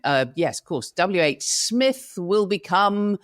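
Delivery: slow, hesitant corporate announcement; flustered announcement. Retold or imitated. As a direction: stall while making up a name on the spot. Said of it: "And they went".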